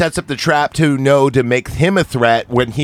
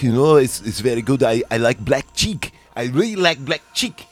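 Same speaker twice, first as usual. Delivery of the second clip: imitated French accent. Podcaster imitating French guys he knew, mock French accent. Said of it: "I knew a bunch of French guys".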